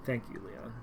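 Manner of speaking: breathy lovestruck whisper; whispered thanks. Acted. Lovestruck girl whispering thanks to Leon. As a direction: breathe his name dreamily.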